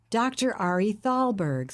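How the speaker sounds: raspy voice. Acted. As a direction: rasp out the name. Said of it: "said a raspy voice".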